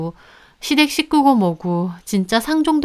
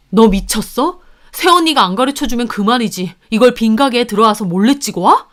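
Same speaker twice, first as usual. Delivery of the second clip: angry scolding; 4 dB louder than usual. Acted. Husband scolds sister.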